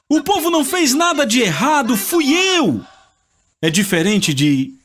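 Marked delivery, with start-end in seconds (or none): 0.1-2.8 high, pleading cry to God. Acted. David cries out to God, taking the blame himself, high and pleading.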